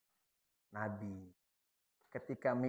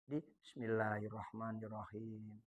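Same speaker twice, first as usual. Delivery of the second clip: low, quiet murmured recitation; soft recitation demo; 6 semitones lower, 14 dB quieter than usual. Shown as a demonstration. Teacher reciting Fatihah softly for students. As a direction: recite softly so only you hear it.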